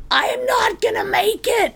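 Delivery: high-pitched mock wail of a struggling mom; hammed-up, high-pitched complaint, imitating mom; mom's worn-out wail. Daughter imitating mom struggling up the hill to the park, mock wailing. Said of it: "she's like this".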